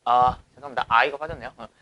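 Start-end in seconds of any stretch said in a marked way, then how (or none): none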